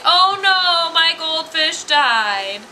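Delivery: mock wail, high and loud, drawn out at the end; hammed-up little boy's lament; dismayed kid. Kid finds his goldfish gone, mock dismay. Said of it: "he's like".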